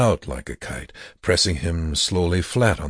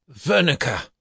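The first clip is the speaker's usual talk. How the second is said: harsh call; 8 semitones higher than usual. Acted. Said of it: "he said harshly".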